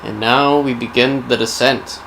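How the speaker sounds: measured storyteller intoning dark history; solemn game-lore prologue read; dramatic lore narration. A narrator's reading. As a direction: narrate a grim legend with deliberate pauses. Returns to scripted lore narration.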